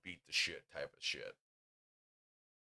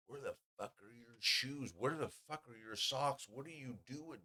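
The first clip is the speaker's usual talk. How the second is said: higher-pitched tipsy questioning, swooping up on each question; mock drunk incredulity, pitched up; acted drunk disbelief; 5 semitones higher, 4 dB quieter than usual. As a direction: play your drunk self baffled by someone. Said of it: "I'm all drunk".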